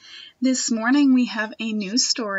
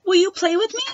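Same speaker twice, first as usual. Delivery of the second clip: higher, hopeful question; girl asking a rabbit to play, higher and hopeful; eager ask; 8 semitones higher, 6 dB louder, faster than usual. Acted.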